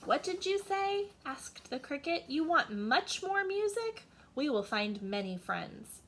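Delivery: high, eager little cricket voice; cheerful cricket. Acted. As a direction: pipe it up, delighted to oblige. Cricket answers again.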